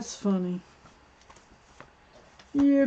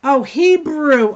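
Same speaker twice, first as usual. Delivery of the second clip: drawn-out loud "Oh, Hebrew" realization; slow, loud dawning "Hebrew"; surprised realization; 5 semitones higher, 9 dB louder, slower than usual. Real, not acted. Realizing a joke in chat.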